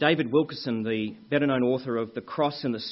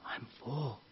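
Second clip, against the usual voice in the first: put-on small child; 10 dB quieter than usual. Child answering telemarketer's question.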